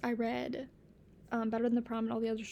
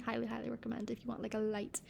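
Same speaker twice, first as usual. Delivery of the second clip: whispered recommendation; 5 dB quieter than usual. Real, not acted. Recommending books.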